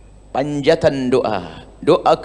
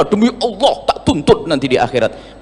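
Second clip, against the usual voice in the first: laughing mock quote. Mocking the angry girl.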